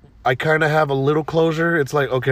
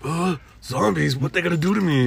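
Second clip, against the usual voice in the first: Norman Reedus confused; 4 semitones higher than usual. Retold or imitated. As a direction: look around lost and murmur. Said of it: "Norman Reedus".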